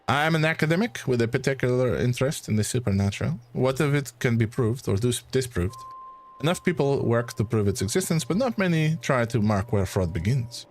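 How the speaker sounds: put-on light French accent, calm and sure; French-accented academic correcting him gently. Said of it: "it's gonna be a struggle for me to keep this accent".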